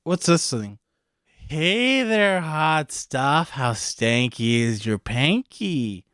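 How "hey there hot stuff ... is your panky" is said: creepy demon. Acted. Creepy demon hits on her.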